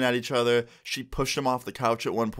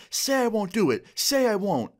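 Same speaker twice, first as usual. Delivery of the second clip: high-pitched imitation of a girlfriend's dare; hammed-up high challenge; mock daring threat; 9 semitones higher than usual. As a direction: taunt him in a raised, acted voice. Retold girlfriend's knife dare.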